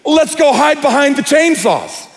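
high, slow mock-incredulous teen; hammed-up horror teen, high and slow; horror movie guy. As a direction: drag it out like a clueless movie teen. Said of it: "the guy goes".

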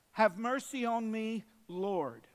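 a woman begging Jesus for mercy; pleading cry. Acted. Woman's cry quoted in sermon.

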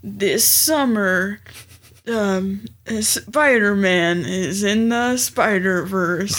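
slow, lightly dramatic trailer announcer; movie trailer voice. Pretend. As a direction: sell it like a film trailer, slowly. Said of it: "give me a movie trailer voice".

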